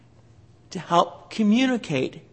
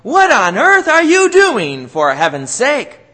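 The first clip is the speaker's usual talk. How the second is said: exasperated parent shouting, high and loud; mock angry parent yell; scolding yell; 4 semitones higher, 6 dB louder than usual. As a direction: bark it like a fed-up parent. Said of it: "yelling and screaming at you".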